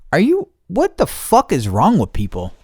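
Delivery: high-pitched exasperated rant; worked-up incredulous complaint; frustrated retold outburst. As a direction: vent like you can't believe these people. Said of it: "super fucking frustrated".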